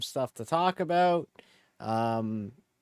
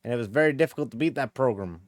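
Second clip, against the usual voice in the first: college football coach. Pretend. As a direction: coach talking about the opponent's program. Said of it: "talking like a college football coach".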